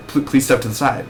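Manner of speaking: stumbling, caught-off-guard repeat of please; flustered reply. Retold or imitated. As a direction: stammer the start of please. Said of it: "And then you're like".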